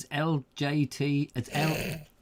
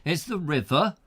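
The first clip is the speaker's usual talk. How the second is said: attempted broad accent from up north; broad northern accent. Host imitating Roger Croser, broad northern accent attempt. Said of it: "It's very broad".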